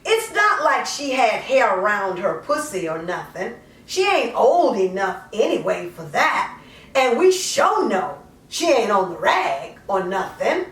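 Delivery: lightly voiced mother justifying herself, conversational; poem in character. A mother explains giving up her daughter, lightly in character. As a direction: speak it as the mother, half confessing, half defending.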